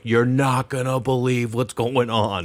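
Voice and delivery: slow, dazed put-on voice; slow stunned voice. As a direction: drag it out, stunned. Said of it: "I'm like".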